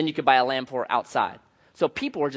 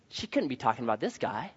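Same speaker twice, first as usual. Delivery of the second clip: hushed disbelief; 5 semitones lower, 10 dB quieter than usual. Retold or imitated. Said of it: "I'm thinking".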